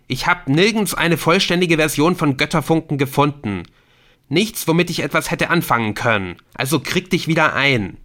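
angry confession. A narrator's reading. Ortolan angrily confesses the theft to Adrian. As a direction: snap the confession at him.

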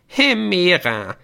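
high, loud, drawn-out “Hemera” from a gnome. Acted. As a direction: savour the name as a squeaky gnome. Gnome repeats the chosen name. (hoher, gedehnter Gnom)

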